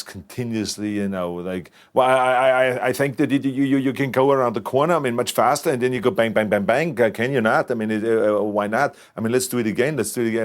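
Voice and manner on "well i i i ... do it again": imitating Paul Verhoeven. Producer mimicking the director's on-set coaching, lightly hammed-up excitable voice. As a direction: tumble through the stammered directions like a restless filmmaker pushing for another take. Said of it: "this is how he talks all the time".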